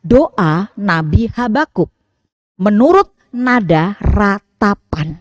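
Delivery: slow, measured reading of the title. Shown as a demonstration. Preacher reading the psalm title to the congregation, slow and even. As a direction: read the heading out slowly and evenly. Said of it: "Silahkan dibuka judul".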